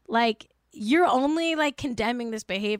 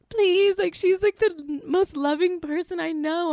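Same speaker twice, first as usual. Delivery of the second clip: lightly voiced pleading kid; 8 semitones higher than usual. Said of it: "he was like".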